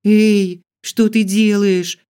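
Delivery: high loud alarmed yell. Acted. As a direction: holler it in alarm. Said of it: "завопила я".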